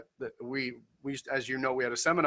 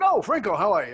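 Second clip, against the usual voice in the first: high, loud hello to an acquaintance; surprised greeting; 5 semitones higher, 5 dB louder than usual. Retold or imitated. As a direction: call out a greeting on bumping into someone. Retold chance greeting on the street.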